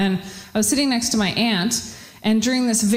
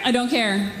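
ordinary talk, nothing marked

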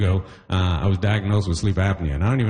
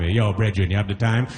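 put-on Jamaican accent. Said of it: "the Jamaican asks you for the time".

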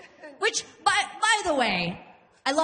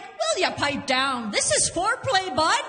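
a hint of a scolding hillbilly mom; lightly voiced mother; 6 semitones higher than usual. Mom to drunk daughter, lightly acted scolding. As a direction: tell them off, jumping high at the end. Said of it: "And she's like".

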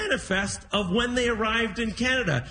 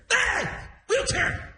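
put-on high, offended old man's voice; high pitched mock outrage; indignant old dad; 12 semitones higher, slower than usual. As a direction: scoff at the idea of a wheelchair. Dad indignant about wheelchair.

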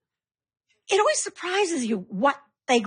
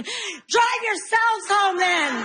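mock yell; 6 semitones higher, much slower than usual. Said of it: "yelling at those kids going".

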